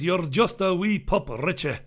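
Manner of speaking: attempted Scottish accent, rolled r's; botched Scottish accent. Irish comic reading a viewer's comment aloud, botched Scottish accent. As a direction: have a rough go at Scottish. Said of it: "That's supposed to be Scottish".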